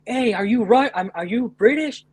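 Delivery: retold yell. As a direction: imitate yourself calling out to strangers. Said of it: "I screamed out like".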